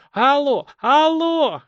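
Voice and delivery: high, piercing, squealing calls; a frantic woman screeching hello; shrill woman's voice. A narrator's reading. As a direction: shriek it down the phone line. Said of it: "на пронзительно-визгливых нотах".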